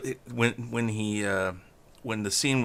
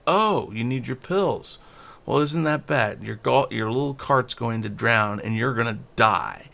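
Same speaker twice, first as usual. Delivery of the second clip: cold and callous. Retold or imitated. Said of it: "so cold and callous".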